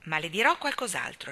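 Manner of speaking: a firm, resolved No, then matter-of-fact; decisive. Acted. Cornelia cutting Gilbert short, decisive and firm. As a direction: settle it firmly, ready to be done with it. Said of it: "con l'aria decisa di chi vuol farla finita".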